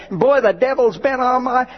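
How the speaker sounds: high-pitched mimic of a church lady; mock testimony. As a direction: lampoon her cheerful testimony. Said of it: "testimony of one lady".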